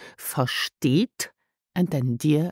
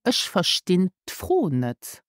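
slow model sentence; 3 semitones higher, slower than usual. Shown as a demonstration. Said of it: "So correctly is".

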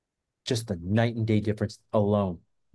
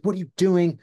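high-pitched alarmed scolding, retold; imitated flustered telling-off, higher voice; mock freak-out; 5 semitones higher than usual. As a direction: act out someone flipping out with a warning. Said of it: "she flips out".

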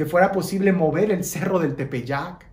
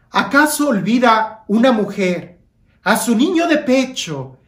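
a lifted, louder preaching read; emphatic scripture reading; 3 dB louder than usual. Acted. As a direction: proclaim the verse with fervor.

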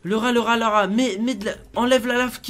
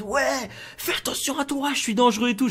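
mock shouted warning, pitched up; shouting threat; 4 semitones higher than usual. Shown as a demonstration. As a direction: demonstrate a threat without going all out. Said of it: "en criant très fort en mode". (menace criée, à moitié retenue)

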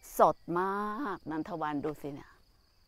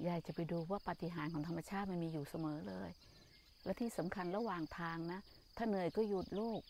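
soft comforting; 6 dB quieter than usual. Real, not acted. Nun soothes the crying grandma, soft and tender. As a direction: coax her gently to breathe and rest.

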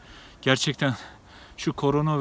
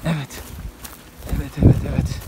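gasping for air; faster than usual. Real, not acted. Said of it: "Nefes nefese kaldım".

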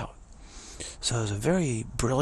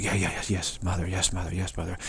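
quick, repeated placating yeses; lightly voiced anxious attendants; obedient yoga girls; 2 semitones lower than usual. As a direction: imitate flustered devotees placating their guru. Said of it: "then the yoga girl's like".

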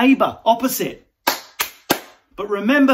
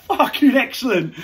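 laughing; 2 semitones higher than usual. Pretend. Laughing idiot.

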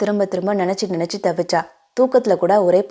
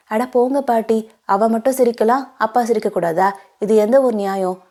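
put-on children teasing; 3 semitones higher than usual. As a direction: tease granny like a child. Children answer grandmother.

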